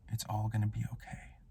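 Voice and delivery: very soft, hushed reassurance; barely voiced, mock-tender comfort; whispering. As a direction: murmur it gently, as at a deathbed. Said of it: "and just whispers".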